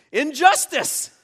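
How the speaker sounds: high, loud, drawn-out cry of outrage; outraged little girl. Acted. Little girl seeing another with her unicorn toy, outraged. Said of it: "She responds".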